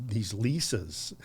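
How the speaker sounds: Lisas said as LEE-suhs, slow; mispronounced Leica. Retold or imitated. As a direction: say Lisas slowly, LEE-suhs, as a naive tourist. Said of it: "I didn't know how to pronounce it either".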